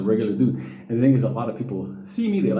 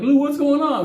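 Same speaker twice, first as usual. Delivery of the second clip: high, louder friendly hail; cheerful cop greeting; 14 semitones higher, 5 dB louder than usual. Retold or imitated. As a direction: greet him like an old buddy. Court officers greeting him.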